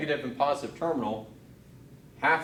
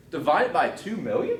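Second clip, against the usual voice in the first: accidental upward swoop in pitch; voice going up high; 3 semitones higher, 4 dB louder than usual. Real, not acted. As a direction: pitch climbing into a squeaky question. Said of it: "my voice just went up that high".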